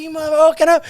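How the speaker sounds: mock yell at a locked door; retold yelling. Wife still banging to get in, mock yell. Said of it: "she's yelling, banging on the door".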